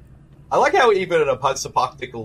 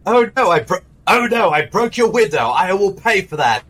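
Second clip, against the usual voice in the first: put-on Malcolm McDowell British accent; 2 semitones higher than usual. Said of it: "my British accent".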